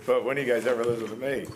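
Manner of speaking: loud and fed up; exasperated loud complaint. Retold or imitated. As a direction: raise your voice, exasperated. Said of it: "I'm like".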